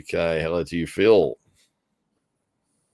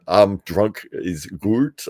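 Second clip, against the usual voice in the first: put-on South African accent; 2 semitones higher, 5 dB louder, much slower than usual. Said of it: "from South Africa there".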